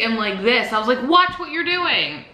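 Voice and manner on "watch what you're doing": high, slow scolding; angry warning. Retold or imitated. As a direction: warn her sharply, stretching each word. Warning the driver.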